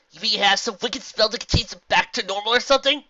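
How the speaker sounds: high, loud questioning pony voice; eager pony. Acted. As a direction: ask with eager hope.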